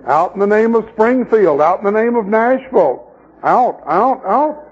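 mock exorcism. Congregations casting out believers, in a mock exorcism. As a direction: parody a deliverance command.

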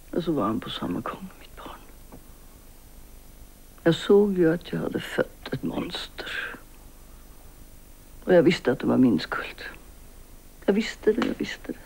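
near whisper, slowing down; hushed guilt. Acted. Mother telling Selma of her guilt, whispered. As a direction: confess it under the breath.

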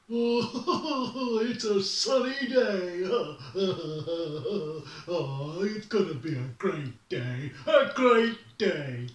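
bubbly, laughing sunny-morning bear; cheery bear voice. Acted. Bear greeting the morning, giddy and laughing. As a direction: chirp it like nothing could go wrong.

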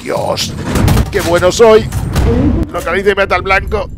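high, loud victory cry; exultant shout. Real, not acted. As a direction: boast at full pitch after a kill. Celebrates killing the target.

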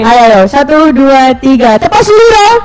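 barking gym coach. Acted. Leads a cheer chant.

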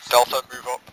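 shouting. Real, not acted. Calling squad forward in combat.

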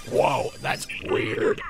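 slow breathy whisper of awe. Retold or imitated. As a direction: whisper it slowly, amazed. Quoted reaction, whispered slow.

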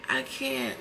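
words drop to a low breathless whisper; breaking whisper. Real, not acted. Overwhelmed recalling the pain, a low whisper. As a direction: let it fall away to a whisper.

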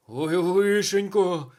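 loud, high, drawn-out lament; distraught cry, stretched and pushed; wailing. A narrator's reading. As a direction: wail it out in alarm. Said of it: "лементував він".

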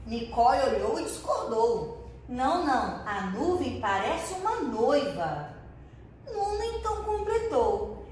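lively read-aloud storytelling voice; story reading. A narrator's reading. Teacher reading a story to her pupils, lively storytelling voice. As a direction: read the story warmly to small children.

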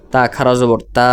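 final তা held long and level; long madd vowel. Shown as a demonstration. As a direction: spell it out, then stretch the last তা by one alif. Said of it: "এইভাবে".

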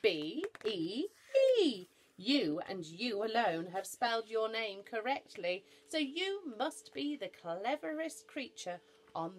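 loud, high proclamation; projected, celebratory voice; jubilant cry. A narrator's reading. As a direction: announce the winner triumphantly. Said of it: "cried Noah".

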